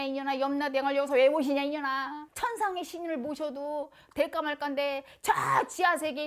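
loud, fast angry tirade; furious scolding. Retold or imitated. Senior shamans scold the novice in a loud, fast angry tirade. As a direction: tear into the novice.

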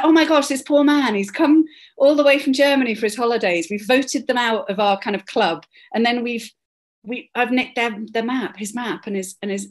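suddenly horrified at what she's done; panicked realisation. Retold or imitated. Narrator realising she kept the tourist's map, in dismay. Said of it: "I just was like".

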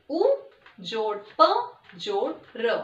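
जोड़ प जोड़ र, syllable by syllable, slowly; slow spelling out. Shown as a demonstration. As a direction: spell each sound slowly for children. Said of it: "ऊपर को हम कैसे लिखते हैं".

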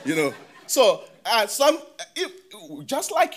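talking through a real laugh; words bubbling with laughter; laughing loudly while starting to speak. Real, not acted. Laughs at a review quote.

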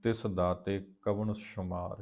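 measured, drawn-out chanting of gurbani lines; slow scripture recitation. Acted. Teacher recites the hymn slowly for the students. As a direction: recite each line slowly with reverence.

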